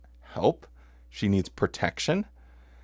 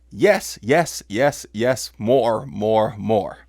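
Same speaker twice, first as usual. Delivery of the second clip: mock consensual screaming; 3 dB louder, slower than usual.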